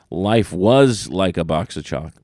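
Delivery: "was" leaned on, line slowed down; slow the quote and stress "was"; deliberate "Life WAS like", spelled out for the listener. Shown as a demonstration. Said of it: "If you listen closely".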